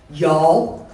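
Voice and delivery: slow, loud Southern mom warning; mother's stern warning. Retold or imitated. Mother to kids in back seat, slow stern warning. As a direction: lean back and lay down the law, slow. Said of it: "My mother whips around to the back seat and says".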